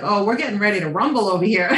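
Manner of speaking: quick, laughing mock announcement; laughing aside. Guest recalls a tense dog meeting, quick and laughing. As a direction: rattle it off through a laugh. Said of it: "and I was like".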